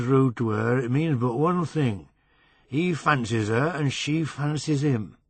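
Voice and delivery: put-on knowing West Riding accent, lightly done; mild West Riding accent, sly. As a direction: drunk Yorkshire man lecturing on women, West Riding accent. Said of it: "He had a flat West Riding accent".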